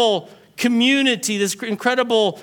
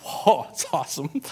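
lower, gushing husband voice; lower-voiced excited husband; 7 semitones lower than usual. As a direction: brag about the new saw. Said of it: "husband comes home ecstatic".

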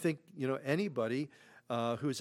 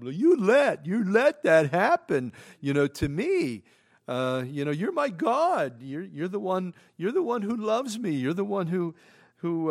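raised, pleading complaint to God; frustrated plea; 4 semitones higher, 7 dB louder than usual. Acted. Job complaining to God that he let this happen, loud and frustrated. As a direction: push it out loud, hurt and betrayed. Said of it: "in frustration".

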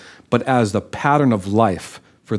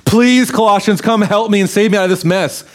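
mock pleading; 7 semitones higher than usual. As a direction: beg dramatically, hammed-up helplessness. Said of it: "He's not saying this".

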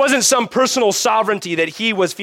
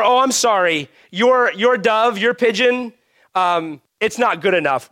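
higher, louder smug merchant voice; mock merchant; 5 semitones higher, 4 dB louder than usual. Pastor mimicking a smug temple merchant, higher and louder. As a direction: play the snooty temple seller.

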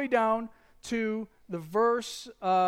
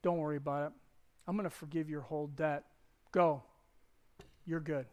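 pitying king; 5 semitones lower, 5 dB quieter, faster than usual. Retold or imitated. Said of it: "the king has pity on the debtor".

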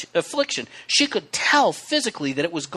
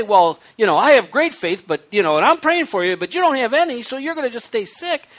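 smug; 3 semitones higher than usual. Retold or imitated. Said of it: "We shouldn't say".

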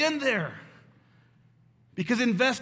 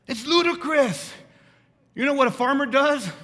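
loud preaching; 5 semitones higher, 5 dB louder than usual. Real, not acted. Preacher building to a climax.

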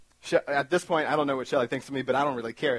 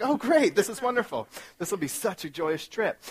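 sarcastic; 6 semitones higher than usual. Retold or imitated. Sarcastic reaction to missing-persons billboard.

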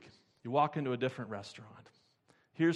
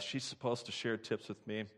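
murmuring under breath; 2 semitones lower, 7 dB quieter than usual. Retold or imitated. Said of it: "murmuring under his breath".

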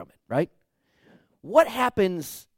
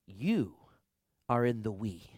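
soft emphasis; 7 semitones lower, 7 dB quieter than usual. Shown as a demonstration. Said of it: "So remember".

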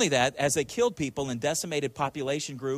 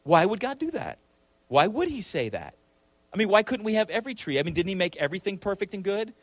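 mildly acted serpent, higher questioning pitch; sowing doubt; 5 semitones higher than usual. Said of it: "instill in her a little bit of doubt".

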